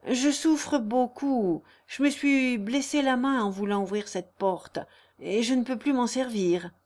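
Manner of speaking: lightly acted pained lament; self-pitying lover, mildly strained; suffering suitor. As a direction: draw out the suffering, then resolve bravely. Léon feigns suffering.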